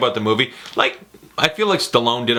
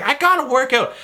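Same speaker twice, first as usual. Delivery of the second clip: high, urgent outburst; pumped-up urge; 12 semitones higher than usual. Retold or imitated. Ran to the gym after the movie, pumped-up. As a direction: act out bursting to exercise.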